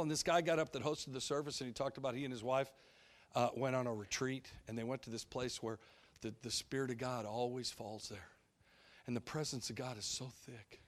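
mock the gushing pastor, soft and sweet; syrupy preacher. Mocking the Seattle host describing his retreat, soft syrupy voice. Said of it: "That's how he's talking".

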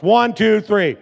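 loud, punchy count; rallying count-in. Real, not acted. Pastor counting congregation in, loud rally. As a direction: count the crowd in for a big shout.

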